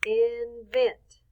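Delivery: INVENT in two separated beats; clap-along INVENT; syllable by syllable. Shown as a demonstration. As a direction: say INVENT as IN, pause, VENT. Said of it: "Snap or clap".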